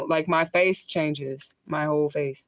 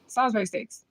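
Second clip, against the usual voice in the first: New Orleans accent; 5 semitones higher than usual. Shown as a demonstration. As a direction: try out a New Orleans accent on Salisbury steaks. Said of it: "my best New Orleans right there".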